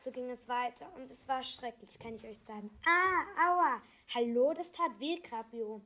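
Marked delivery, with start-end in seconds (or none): 2.8-5.8 high, loud yelp of protest; acted outcry at a hurt finger; crying out in pain. A narrator's reading. Child woken from a nightmare by a pinch, crying out. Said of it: "schrie nicht nur, weil mein Finger weh tat".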